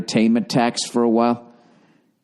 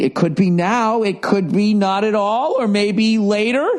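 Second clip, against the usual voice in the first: lightly higher, teasing sing-song take-off; mocking Trump; 9 semitones higher than usual. Comedian mocking Trump's coy strike tweets, lightly higher and sing-song. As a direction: tease the coy hedging like a trickster. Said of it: "the way he's trying to do the three-card Monty".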